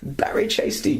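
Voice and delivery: high mock Liverpool accent; hammed-up Scouse impression; Liverpudlian friend. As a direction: squeak the name in bad Scouse. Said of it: "talks like this".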